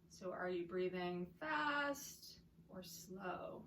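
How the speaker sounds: calm, spacious meditation cueing; guided breathing meditation. Real, not acted.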